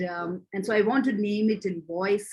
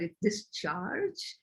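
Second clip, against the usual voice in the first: DISCHARGE drawn right out, softer, rising at the end; "discharge" said slowly and quietly, as if querying the word; word held up for scrutiny; 5 dB quieter, much slower than usual. Shown as a demonstration. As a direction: stretch "discharge" slowly into a questioning rise. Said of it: "you know, that word".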